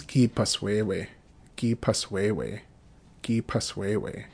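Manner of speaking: slow, careful drill pronunciation; slow model reading. Shown as a demonstration. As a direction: spell it out slowly for learners. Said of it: "Just run through all these verbs".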